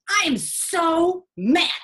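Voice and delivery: imitating a mad teen. Nurse imitates the angry teen patient, mock outrage. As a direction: play her indignant, stretching it slowly. Girl retelling her anger.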